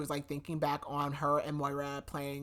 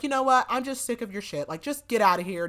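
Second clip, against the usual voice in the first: higher-pitched, mock angry mom; retold fed-up outburst; 5 semitones higher, 5 dB louder than usual. Mom telling her daughter to get out, fed up. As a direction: act out a mother who has had it.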